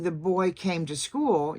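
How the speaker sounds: put-on slow, weight on "boy", "came", "school"; emphasize "boy", "came" and "school", keep "to" light; measured stresses on "boy", "came", "school"; sentence stress. Shown as a demonstration. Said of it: "you'd emphasize boy, came, and school".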